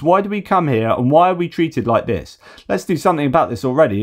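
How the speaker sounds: mildly indignant tourist, the last line fast; mock Russian tourist. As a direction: grumble as the aggrieved tourist. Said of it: "if you're gonna say".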